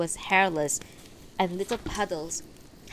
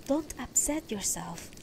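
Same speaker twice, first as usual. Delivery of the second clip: soothing, slightly softened plea; gentle; 5 semitones higher than usual. A narrator's reading. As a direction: soothe your wife gently, pitch a little raised. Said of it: "he said more gently".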